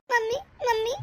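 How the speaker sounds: tearful, breaking voice on mummy; crying. Acted. Pregnant daughter-in-law to her mother, crying. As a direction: choke up calling your mother.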